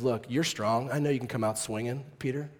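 gentle instruction. Retold or imitated. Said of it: "What he's teaching them is".

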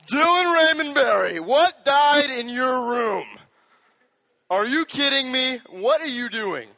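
loud, high, furious parent scolding. Retold or imitated. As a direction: blast them for the smelly room like an angry mom. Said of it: "Don't use my middle name at me".

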